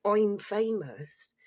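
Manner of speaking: slow, mocking drawn-out boast; smug self-importance. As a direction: parody a show-off bragging. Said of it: "they all say".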